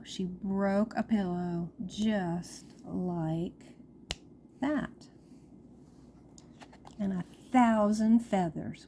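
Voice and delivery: put-on expressive, measured storytelling to children; storyteller with swooping emphasis; picture-book read-aloud. A narrator's reading.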